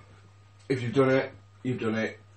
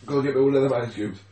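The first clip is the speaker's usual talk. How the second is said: urgent call; 2 semitones higher, 6 dB louder, faster than usual. Real, not acted. Urgent request in pain.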